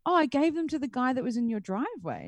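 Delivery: a hint of a defensive delivery man; imitated delivery man. Pizza man explaining to the customer, lightly imitated.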